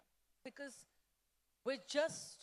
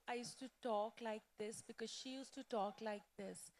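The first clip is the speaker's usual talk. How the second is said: put-on quieter, shifted tone as her childhood friend; Vinita's voice; 8 dB quieter than usual. Shown as a demonstration. Author demoing the alter ego she played for fans, softer voice. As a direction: slip into a softer, different voice. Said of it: "I used to change my tone a little bit".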